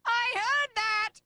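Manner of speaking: high, loud, drawn-out protest; indignant call. Acted. Archibald overhearing talk about him, indignant call. Archibald calls through the door.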